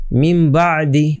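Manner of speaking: মিম বাদি drawn out very slowly, নুন turned into a humming ম before ব; iqlab with ghunnah. Shown as a demonstration. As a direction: hum the ম of মিম বাদি long. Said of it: "মিম বলতে হবে".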